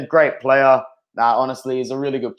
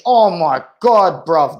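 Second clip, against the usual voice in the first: excited; 2 semitones higher, 4 dB louder, much slower than usual. Real, not acted. Reacting to a goal live.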